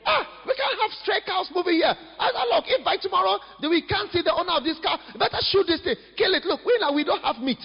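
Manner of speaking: a hint of an irritated local wanting the stray shot; angry townsperson. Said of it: "Somebody said".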